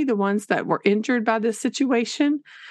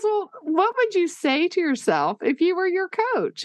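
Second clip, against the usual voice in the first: a higher, gentle voice for the counselor; 9 semitones higher than usual. Retold or imitated. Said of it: "she goes".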